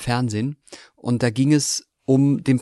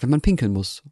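Baden accent. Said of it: "ich hab halt gesagt".

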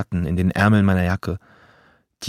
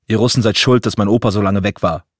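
angry accusation; 5 dB louder than usual. Acted. Bully shouts an accusation.

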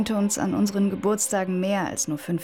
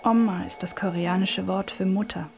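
whispered narration. Acted.

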